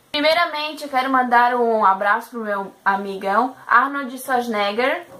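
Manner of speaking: talking through a burp. Shown as a demonstration. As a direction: push the words out on a burp. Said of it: "falar arrotando".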